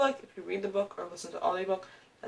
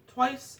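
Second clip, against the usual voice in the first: Twice punched higher, on its own; stress on twice; 6 semitones higher, 4 dB louder than usual. Real, not acted. Repeating to her viewers how often she reread it, Twice punched high. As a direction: hit Twice as a stunned echo. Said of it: "I read it twice in quarantine".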